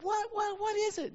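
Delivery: put-on high, loud eager kid voices; excited kids. Uncle retelling his nieces' and nephew's eager question. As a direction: squeal it like thrilled children.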